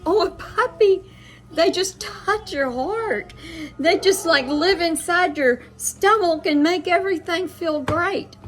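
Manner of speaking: high, delighted gush imitating the lady; excited. Confused lady delighted to hear of a puppy, excited. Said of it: "she was so excited about the puppy".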